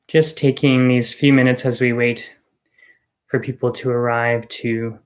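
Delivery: calm guiding voice with long pauses; guided meditation. Real, not acted. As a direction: ease listeners gently into the present moment, unhurried. Leads an arrival meditation.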